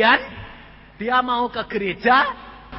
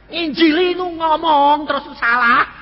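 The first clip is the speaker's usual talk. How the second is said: raised, higher-pitched scolding; loud rebuke; 7 semitones higher, 5 dB louder than usual. Retold or imitated. Pastor scolding the evangelizing husband, loud rebuke. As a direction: correct him at full voice.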